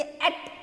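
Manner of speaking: एट as one short syllable; pronunciation demo. Shown as a demonstration. Teacher showing how to read the group, एट pronounced short. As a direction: say एट short, ending on the T. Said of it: "उसमें कैसे पढ़ेंगे".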